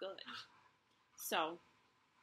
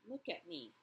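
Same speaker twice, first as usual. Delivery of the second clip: softer, low pleading; quiet plea; 3 semitones lower, 6 dB quieter than usual. Acted. Rabbit pleading with the old woman, soft and sad. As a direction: plead gently and sadly. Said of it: "he said to her".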